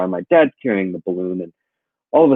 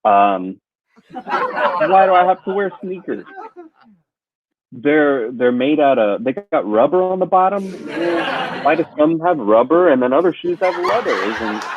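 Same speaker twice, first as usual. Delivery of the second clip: deliberately lame stand-up bit, slower with laughs; cheesy observational comic, laughing at his own jokes; bad comic; 5 semitones higher, slower than usual. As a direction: play a hack comedian doing weak shoe jokes. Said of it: "come up with some bad stand-up".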